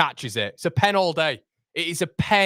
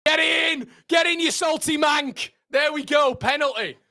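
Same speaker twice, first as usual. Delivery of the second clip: celebrating; 6 semitones higher than usual. Real, not acted. Fan celebrates a penalty.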